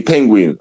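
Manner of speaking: Penguin said slowly and clearly, every sound spelt out; penguin, careful say. Shown as a demonstration. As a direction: say Penguin again, carefully, as a correction. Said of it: "What's that word say?".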